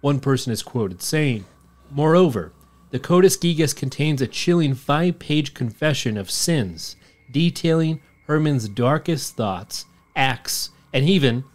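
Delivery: measured documentary-style narration; story narration. A narrator's reading. Host reading the Codex Gigas legend, narrating. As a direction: read it like a legend being told. Reads a scripted legend account.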